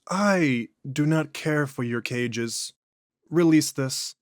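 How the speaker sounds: slow, drawn-out otherworldly voice; an ancient thing speaking through a man; eerie, unhurried entity; possessed alien voice. Acted. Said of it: "voice and inflections are noticeably different".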